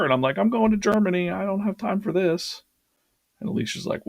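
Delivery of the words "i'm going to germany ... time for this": mock complaint. Complaining about no time.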